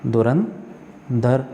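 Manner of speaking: धुरंधर drawn out very slowly with a rise; slow careful spelling. Shown as a demonstration. Teacher slowly repeats the correct word for students. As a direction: stretch धुरंधर slowly, lifting the end. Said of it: "धुरंधर होता है".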